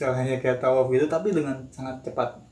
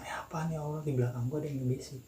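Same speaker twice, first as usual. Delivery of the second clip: gumam takut; 8 dB quieter, faster than usual. Retold or imitated. Inner reaction to a whisper behind him.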